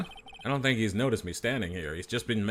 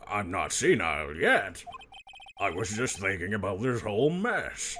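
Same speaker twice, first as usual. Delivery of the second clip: Grossberg. Acted. Grossberg answers the lawyer.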